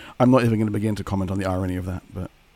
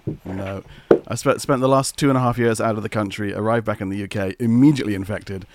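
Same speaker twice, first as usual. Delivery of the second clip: rough, hoarse voice from illness; raspy throat like gargling glass. Real, not acted. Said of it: "That's why I sound like I've been gargling broken glass".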